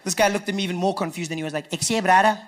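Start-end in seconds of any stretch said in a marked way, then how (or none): 1.7-2.4 mock Cape Town accent, puzzled question. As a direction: imitate a baffled Cape Town guy. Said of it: "why you talking funny".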